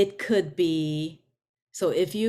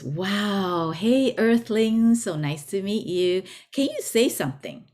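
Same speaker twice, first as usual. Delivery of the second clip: mildly excited, higher-pitched hello; eager alien greeting; 3 semitones higher than usual. Acted. ET meeting a human for the first time, eager greeting. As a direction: voice a friendly, wowed visitor.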